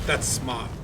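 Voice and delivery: rough take on a Boston "smart"; Boston-accent impression, not quite nailed; imitated Boston accent. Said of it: "the way he says smart".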